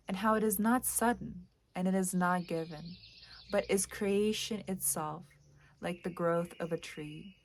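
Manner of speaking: measured poem recital, pausing between lines; even, unhurried poetry-reading voice. Acted. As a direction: read it as verse, line by line. Reads a poem aloud.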